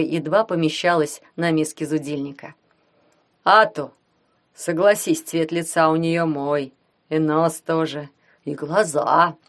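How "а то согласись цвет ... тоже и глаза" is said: smug. Acted. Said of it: "самодовольно".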